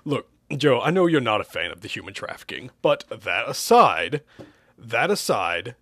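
measured, drawn-out persuasion; slow down to coax him round; deliberate, stretched-out appeal; asked slowly. Acted. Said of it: "Hugh asked slowly".

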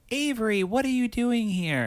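high, startled acting tone; high surprised woman's voice. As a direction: greet him in fake surprise. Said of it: "And she's like".

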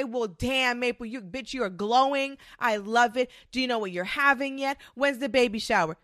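bubbly, fast hype for a friend; excited congratulations. Retold or imitated. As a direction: gush over her glowing, quickly. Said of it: "I'm gonna say".

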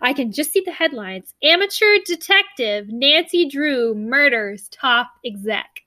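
a gloating rival with a smile you can hear; smug reporter. Retold or imitated. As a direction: savour the scoop, a smug grin in the voice. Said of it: "with a smile on her face and says".

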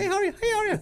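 very high phony greeting, repeated; matching high octaves. Acted. Man mimicking two people matching octaves, high fake-nice voice. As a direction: echo a hello way up high. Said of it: "do you match people's octaves".

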